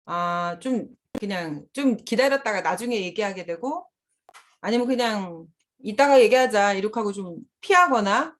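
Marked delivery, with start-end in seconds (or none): 5.8-6.7 louder, firm 'let's talk later'; mother firmly postponing the fight; firm cutoff. Retold or imitated. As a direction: shut the argument down firmly. Mother cutting off an argument.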